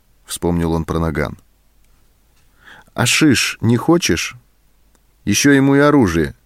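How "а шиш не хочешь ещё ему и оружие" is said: angry retort. A narrator's reading. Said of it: "рассердился сержант".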